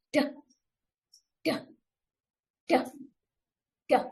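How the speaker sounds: duh tapped short and voiced, the tongue behind the teeth; phonics d sound. Shown as a demonstration. Teacher modelling the d sound for the class. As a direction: tap out duh, duh, duh, duh. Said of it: "make a quick sound with your voice".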